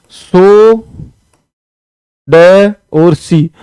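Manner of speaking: slow letter-by-letter spelling; spelled out slowly. Shown as a demonstration. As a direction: spell it out syllable by syllable. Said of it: "सोडसी ऐसे लिखते हैं". (धीरे-धीरे अक्षर अलग करके)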